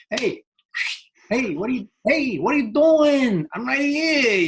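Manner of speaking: high-pitched mock holler for attention; happiness calling out. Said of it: "happiness is going".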